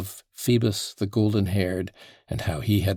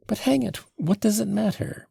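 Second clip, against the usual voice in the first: high-pitched burst of impatience; exasperated; 13 semitones higher than usual. Acted. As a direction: throw it off testily, pitched right up. Irritated suspect under questioning.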